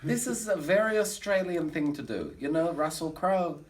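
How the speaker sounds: put-on German accent of a comic showman; fake German accent. Bragging to the audience in a fake German accent. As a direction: camp cabaret star with a fake German accent.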